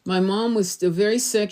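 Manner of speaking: usual speaking voice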